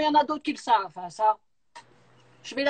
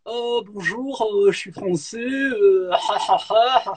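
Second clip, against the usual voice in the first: mock French accent; 5 semitones lower than usual. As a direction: parody a Frenchman from France, in a French accent, with a silly laugh. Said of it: "quand j'imite l'accent français". (imitation moqueuse de l'accent français de France)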